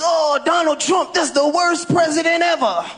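lightly sung whine of an online critic; mocking Facebook complainer. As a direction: comedian mimics Facebook posters in a sing-song whine. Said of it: "You read the messages".

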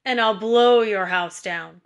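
loud, growled wolf threat; growling wolf. A narrator's reading. Wolf threatens the first pig's straw house, loud growl. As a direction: growl it out as the big bad wolf, drawing out the last words. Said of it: "growled the big bad wolf".

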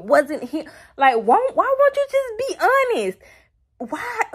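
loud, high pleading outburst; distressed outrage. Real, not acted. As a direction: demand honesty from the characters. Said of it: "I am so much distress right now".

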